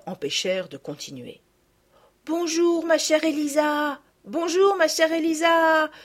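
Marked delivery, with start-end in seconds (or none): 2.2-5.9 put-on higher, lively girls' greeting; lightly voiced happy girls; joyful greeting. A narrator's reading. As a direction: greet her with delight.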